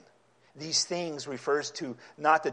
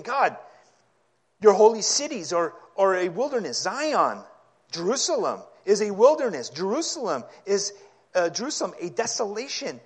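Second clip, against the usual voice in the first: loud, higher lament to God; yelling prayer; 5 semitones higher, 5 dB louder than usual. Acted. Preacher voicing Isaiah crying to God over Jerusalem, loud higher lament. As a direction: cry out over the ruined city. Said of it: "He's actually yelling".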